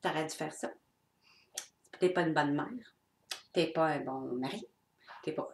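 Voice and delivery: a lightly voiced inner critic, scolding; the nagging ego, cold and judging. The ego whipping her with reproach, a hint of scolding. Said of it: "la cravache, là, de l'ego qui sort et dit".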